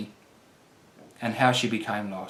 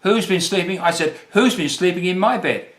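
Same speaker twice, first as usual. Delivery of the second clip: mild growl, higher voice; a touch of an angry, worried mama bear; 6 semitones higher than usual. Acted. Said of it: "growled Mama Bear".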